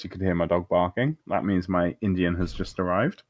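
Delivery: mouth full. Real, not acted. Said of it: "don't cast with your mouth full".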